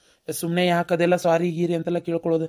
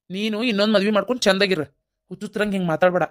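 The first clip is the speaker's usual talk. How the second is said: 1 irritated; 2 semitones higher than usual. Acted. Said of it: "ಸಿಟ್ಟಾಗ್ಬೇಡ".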